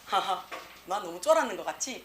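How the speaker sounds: mock embarrassed little laugh; sheepish laughing. Teacher acting someone laughing off their fright, sheepishly amused. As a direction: laugh off having been scared. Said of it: "웃기 시작을 합니다".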